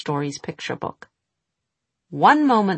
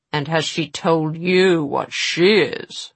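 demanding witch; 4 dB louder, slower than usual. Acted.

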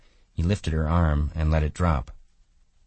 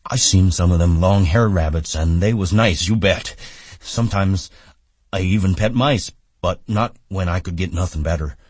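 simple-minded man chatting eagerly about pets; loud, childlike, rustic farmhand voice; childlike Lennie-type figure, chatty; 3 semitones higher, 6 dB louder than usual. A narrator's reading.

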